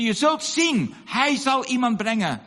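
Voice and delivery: high, emphatic retold insistence; insistent prediction. Old woman to villagers who mock her, insistent. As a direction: insist like a believer defying doubters.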